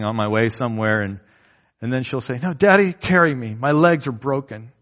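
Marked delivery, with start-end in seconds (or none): 2.4-4.7 put-on a child insisting her legs are broken; imitating a whiny daughter. Daughter voiced in a story.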